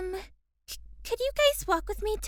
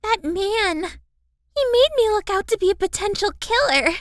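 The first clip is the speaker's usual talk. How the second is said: upset outburst; 7 dB louder than usual. Acted. Kaori upset at the accuser.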